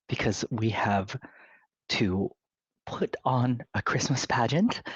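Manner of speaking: measured, lightly voiced committee head; polite reproof with deliberate pauses; restrained disapproval. Committee head asking woman to let him up, politely stern.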